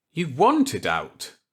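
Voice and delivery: can't believe what he heard; slow disbelief. Acted. Walker echoing Millet in disbelief, slowly.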